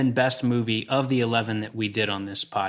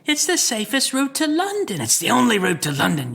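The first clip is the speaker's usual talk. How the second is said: Rickman villain voice; 12 semitones higher, 3 dB louder than usual. Retold or imitated. Quoting Rickman's line.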